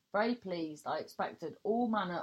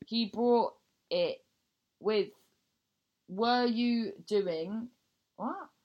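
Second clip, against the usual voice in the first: bemused husband voice; 3 semitones higher, 6 dB louder, slower than usual. Retold or imitated. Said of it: "I inquired, somewhat bemused".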